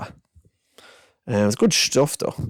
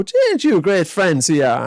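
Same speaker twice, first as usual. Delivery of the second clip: higher, louder mock-enthusiastic chat; mock eager; 8 semitones higher, 5 dB louder than usual. Narrator eggs the boy on, higher and louder. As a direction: egg the kid on brightly. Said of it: "I go".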